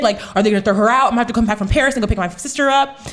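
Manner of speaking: quick, racing worried thoughts; worried rush. Retold or imitated. Big sibling fearing for little sister, worried rush. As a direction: rush through it as worries pile up. Retelling her panicked thoughts.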